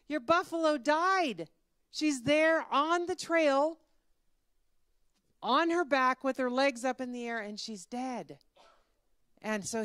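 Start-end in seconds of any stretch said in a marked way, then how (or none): 0.1-8.4 raised voice, drawn-out alarmed report; urgent news. Acted. Villager runs to tell the owner, urgent. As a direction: break the bad news with drama. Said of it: "somebody came running and said".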